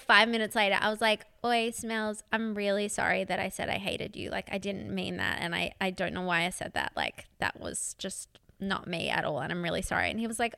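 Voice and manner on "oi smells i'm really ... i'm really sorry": softer, subdued sorry; retold apology. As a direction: say sorry quietly, dropping softer as it goes. Retold sheepish apology to partner.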